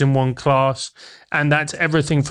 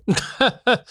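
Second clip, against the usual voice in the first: short laugh; 9 semitones higher than usual. Real, not acted. Guest laughs at the question.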